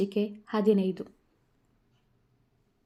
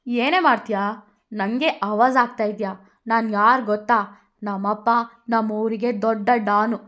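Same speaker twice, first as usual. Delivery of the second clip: louder swaggering challenge; Radha challenging; 5 dB louder than usual. Acted. Radha boasts she's a don's daughter, daring. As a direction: dare her to fight.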